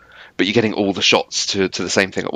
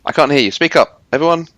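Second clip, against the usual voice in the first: calling out higher and louder; mock calling out; 5 semitones higher, 4 dB louder than usual. Co-host jokingly asks listeners to answer, calling out. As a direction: pretend to rouse a silent crowd. Pretends to address an audience.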